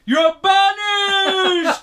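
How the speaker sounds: high, slow, booming shriek; shouting witch voice. Acted. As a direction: screech it like a cursing witch. Voicing the town banishing witch.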